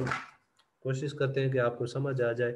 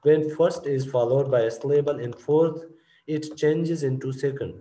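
rule read aloud; 4 dB louder, much slower than usual. Shown as a demonstration. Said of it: "reads the rule aloud".

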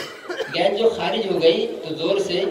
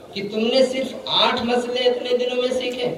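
shocked rebuke; 4 semitones higher, faster than usual. Retold or imitated. Sheikh rebukes disciple.

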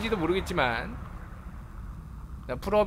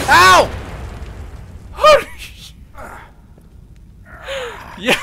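loud, high shocked cry; startled yelp; 13 semitones higher, 9 dB louder, slower than usual. Real, not acted. Streamer caught by a sudden hit, loud high yelp.

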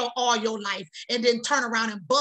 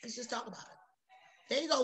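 soft coaxing; 11 dB quieter than usual. Real, not acted.

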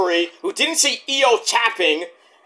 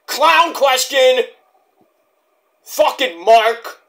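slow, drawn-out heckle; mock heckling yell; 4 semitones higher, 3 dB louder, much slower than usual. Fan heckling a reporter at the media scrum, mock yell. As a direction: call it out slowly, stretching each word. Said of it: "I would, I would yell out".

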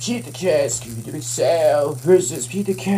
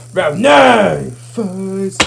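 booming fighting game announcer; 7 dB louder, much slower than usual. Pretend. Fighting game round call.

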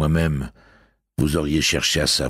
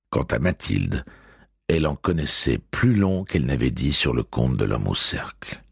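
usual speaking voice

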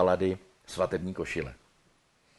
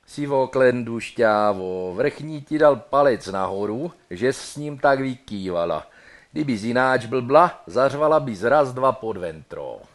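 Brno slang; 2 semitones higher, 6 dB louder than usual. Acted. Praising the bride in loud Brno hantec slang. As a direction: deliver it with cocky Brno swagger. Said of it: "No a brněnsky".

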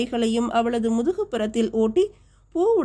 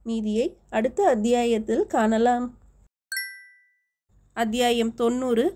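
ordinary delivery, nothing marked

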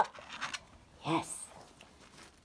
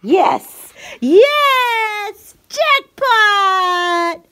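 high, loud excited praise; squeaky praising a dog; 6 semitones higher, 6 dB louder than usual. Real, not acted. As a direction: gush over the dog, squealing. Excited praise of dog after jackpot.

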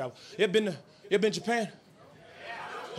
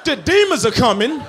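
incredulous; 6 dB louder than usual. Real, not acted. Comic repeats the crowd's warning.

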